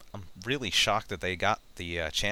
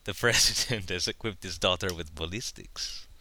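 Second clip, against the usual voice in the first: put-on Latino accent. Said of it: "my terrible Latino accent".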